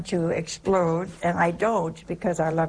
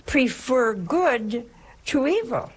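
slow, weighty preacher's line, "evil" drawn out; preaching command; 5 semitones higher, slower than usual. Acted. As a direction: lay down the commandment slowly. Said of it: "our Lord is telling us now".

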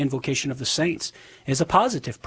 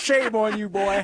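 mock scolding; 6 semitones higher, slower than usual. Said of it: "Making fun of my southern accent".

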